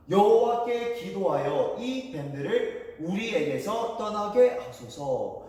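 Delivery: slow, measured Bible recitation; drawn-out words, phrase by phrase; scripture reading. Acted. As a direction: read the verse aloud slowly for a group to follow. Reads scripture aloud for all to follow.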